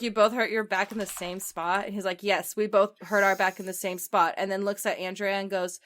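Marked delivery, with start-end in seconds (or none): 0.0-1.9 retold doubting question, lightly amused; sceptical question. Friend questions his dubious story. 2.2-4.3 loud, firm retold answer; insistent confirmation. He insists on his dubious story.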